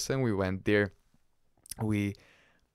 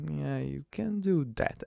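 higher, sugary-polite imitation; mock polite; 5 semitones higher than usual. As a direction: put on over-courteous permission. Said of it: "he would be very polite".

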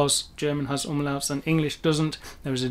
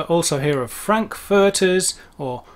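American accent; 2 semitones higher, 4 dB louder, slower than usual. Shown as a demonstration. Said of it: "my American accent's not very good".

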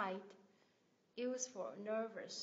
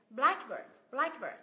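"Blackbird" as BLACK-bird, BLACK punched; teacher's model of "blackbird", weight on BLACK; stress on first syllable; 4 dB louder, slower than usual. Shown as a demonstration. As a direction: hit BLACK hard, let "bird" fall. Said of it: "Mình nhấn vào âm tiết thứ nhất".

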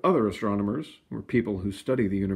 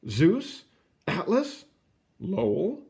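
eager suggestions; 9 semitones higher, much slower than usual. A narrator's reading. Public suggesting names.

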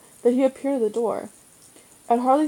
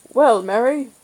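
louder, cheerful greeting; 2 semitones higher, 6 dB louder than usual. Acted. Father teasing the uncle about his car, cheerful and louder. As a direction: hail him with good cheer. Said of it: "Father said cheerfully".

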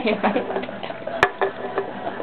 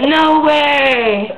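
mock disbelief; 6 dB louder than usual. Shocked reaction.

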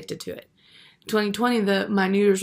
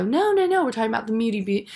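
mocking friends. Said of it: "They go".

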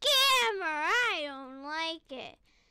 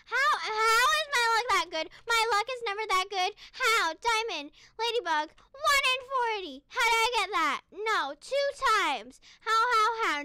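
excited disbelief; 3 semitones higher, 6 dB louder than usual. Real, not acted. Can't believe luck.

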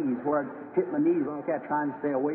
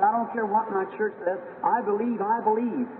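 put-on defiant sick girl; 5 semitones higher than usual. Sick girl defies her church.

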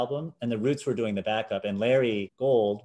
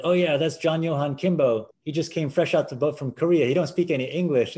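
higher, mock-earnest joking tone; teasing bandmates' voice; 5 semitones higher, 4 dB louder than usual. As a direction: sell the prank with a straight face. Bandmates joking about Kimbo's origin.

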